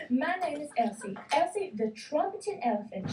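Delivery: a lightly voiced proud elephant; proud bellow. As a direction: announce your name proudly. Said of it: "she bellowed proudly".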